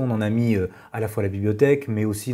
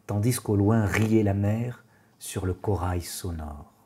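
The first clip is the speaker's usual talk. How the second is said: measured poem reading with pauses between lines; poetry recitation; slower than usual. Acted. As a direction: recite the verse evenly, letting each line settle. Reads Toulet's poem aloud.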